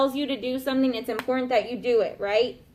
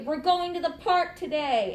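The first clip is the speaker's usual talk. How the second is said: excited; 4 semitones higher than usual. Shown as a demonstration. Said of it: "and I'm really excited about it".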